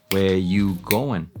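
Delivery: slow "where" as WEH, no "are"; contracted form. Shown as a demonstration. Teacher alternating forms, slow contracted form. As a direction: stretch WEH-you-GO-en slowly. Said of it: "alternar así".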